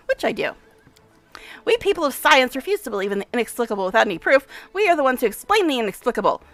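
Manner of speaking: lightly played brisk, self-important scientist; a touch of the mad professor, pleased; eccentric scientist. Voices Nenio lecturing.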